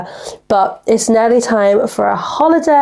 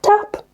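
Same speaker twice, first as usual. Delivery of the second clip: a dainty tap for a tiny bump; tiny tap noise; 11 semitones higher than usual. Retold or imitated. Driver showing how gently she hit the bollard, tiny high tap.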